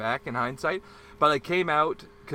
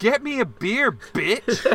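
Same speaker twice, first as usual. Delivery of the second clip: much higher, louder shouted order; retold angry demand; 9 semitones higher, 4 dB louder, slower than usual. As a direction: shout the demand across the bar.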